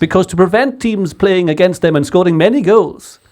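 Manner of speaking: a hint of posh English, fast; posh English accent. Friends egging him into his posh English voice. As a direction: clip it like a posh pundit. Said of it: "Do your posh English one".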